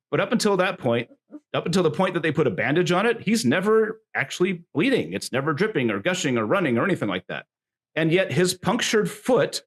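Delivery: hammed-up ringside commentary; showy, swooping announcer delivery; wrestling announcer. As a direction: call out the outrage to the crowd. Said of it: "my best wrestling announcer voice".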